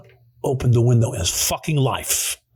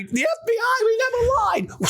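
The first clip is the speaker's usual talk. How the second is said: mock shout. Acted exclaimed line.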